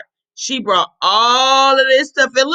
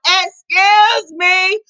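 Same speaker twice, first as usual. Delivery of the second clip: calling out; 3 semitones higher than usual. Acted. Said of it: "She stuck her head out the window".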